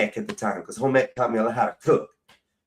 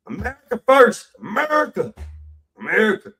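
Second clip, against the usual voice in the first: mock insult rant; 3 semitones higher than usual. Ranting insult at rival.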